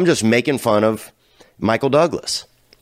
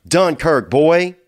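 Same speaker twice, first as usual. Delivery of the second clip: hype shout; 5 semitones higher, much slower than usual. Real, not acted. Hyping Dunkirk loudly.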